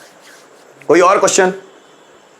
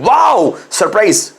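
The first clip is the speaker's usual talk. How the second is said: excited wow; 3 semitones higher, slower than usual. Shown as a demonstration. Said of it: "तेज feeling".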